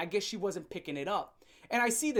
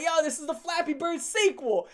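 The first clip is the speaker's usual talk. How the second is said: mock announcer; 9 semitones higher, 6 dB louder than usual. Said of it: "I'm like".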